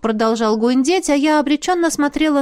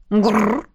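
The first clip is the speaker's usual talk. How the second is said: growl. Acted. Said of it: "Айна поддержала духа".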